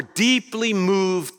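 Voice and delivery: "deeply moved" stretched out for emphasis; stress on deeply moved. Shown as a demonstration. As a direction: pick out "deeply moved" slowly as you read. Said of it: "I'll emphasize the words I'm looking for".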